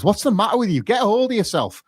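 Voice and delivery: fatherly tone. Retold or imitated. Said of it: "fatherly in tone".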